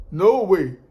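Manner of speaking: mild mock outburst; firm retold refusal. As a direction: push back hard on the buyer. Refusing to wait for buyer.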